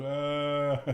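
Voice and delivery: imitated crying wail. Father imitating his son bursting into tears, mock wail. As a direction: mimic a cry starting up. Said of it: "started crying".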